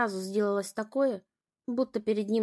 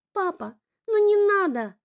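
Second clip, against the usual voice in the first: much higher, loud, slow plea; pleading cry; 9 semitones higher, 7 dB louder than usual. A narrator's reading. Sister begs father to stop, pleading. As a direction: beg him to stop. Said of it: "просила она".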